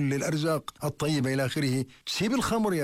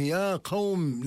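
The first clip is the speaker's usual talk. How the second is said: calling out; 4 semitones higher, much slower than usual. Retold or imitated. Calling out to his people.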